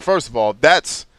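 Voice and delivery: half-hammed outrage at the filmmakers; mock rant. Retelling his reaction to G I Joe, mock indignant rant. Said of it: "I was like".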